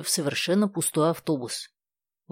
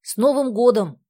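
bright, high, louder New Year greeting; eager greeting; 8 semitones higher, 7 dB louder than usual. A narrator's reading. Stas rushes to greet the old woman, eagerly. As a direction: rush up and greet her cheerfully. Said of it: "бросился к ней Стас".

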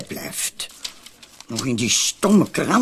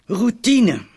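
imitating the inspector; 8 semitones higher, 5 dB louder than usual. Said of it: "zei hij".

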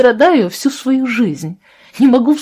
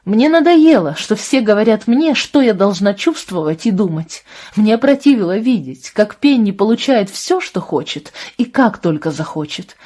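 high, loud, pent-up grievance pouring out; angry rant; 4 semitones higher, 4 dB louder than usual. Acted. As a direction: let every complaint spill over. Абра выплёскивает обиду Джошуа. (гневная тирада Абры Джошуа, громко и высоко)

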